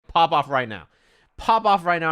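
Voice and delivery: loud, insistent urging; mock-aggressive pep talk; demanding hype-up. Retold hyping up friend in chat.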